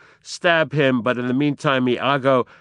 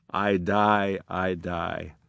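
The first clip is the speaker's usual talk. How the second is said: softer, lower, fading to nothing; dying words; 5 semitones lower, 7 dB quieter, slower than usual. Acted. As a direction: let the breath give out. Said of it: "who is dying".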